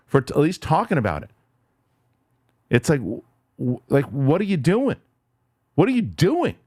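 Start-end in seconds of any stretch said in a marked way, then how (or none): 5.8-6.6 fed up, demanding an answer from the media; real anger. Real, not acted. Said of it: "I can't believe, I'm getting pissed off".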